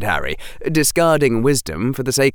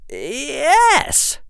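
put-on higher, brisk boyish Harry with sarcasm; young Harry voice. Harry answering the headmaster, higher and sarcastic. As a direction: voice Harry as a cheeky boy.

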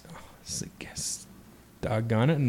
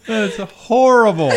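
high, slow, laughed-out verdict; drawn-out and high, cracking up; laughing dismay; 8 semitones higher, 4 dB louder, slower than usual. Real, not acted. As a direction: groan it through real laughter. Cracking up at the joke.

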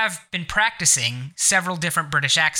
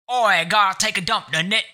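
quick, higher-pitched mock Cockney; Cockney accent; 5 semitones higher than usual. Shown as a demonstration. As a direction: fire it off in a hammed-up Cockney accent. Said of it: "I could also go with the Cockney one".

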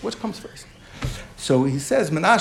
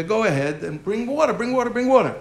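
retold urgent shout; 5 semitones higher than usual. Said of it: "And he screams to the".

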